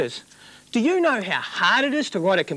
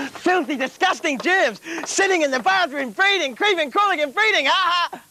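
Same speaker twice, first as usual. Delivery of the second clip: higher and rising, relishing the germs; creepy building excitement; 8 semitones higher than usual. Acted. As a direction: get carried away with disgust. Host getting carried away.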